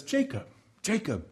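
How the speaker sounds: softly calling his name in the night; a gentle, intimate summons; tender call. Retold or imitated. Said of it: "this God meets him in the night".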